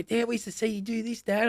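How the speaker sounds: lightly put-on little kid's voice; imitating his kids. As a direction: pipe up high like a child telling Dad. Quotes children remembering.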